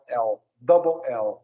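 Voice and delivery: "L, double L" spelled out slowly; slow spelling demo. Shown as a demonstration. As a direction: model "double L" slowly for the student. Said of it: "em vez de falar L".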